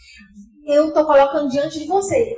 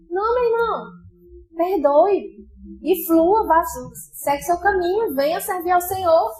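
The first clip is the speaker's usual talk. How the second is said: pleading exhortation; 4 semitones higher than usual. Acted. Preacher rebuking the sulking believer.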